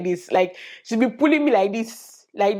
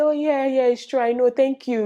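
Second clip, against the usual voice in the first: 1 mock polite reply; 6 semitones higher than usual. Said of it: "reply and say".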